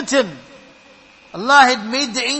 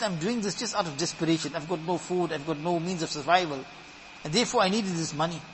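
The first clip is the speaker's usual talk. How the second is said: low, soft voicing of a desperate woman; subdued desperate plea; 6 semitones lower, 8 dB quieter than usual. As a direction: explain yourself quietly, low and defeated.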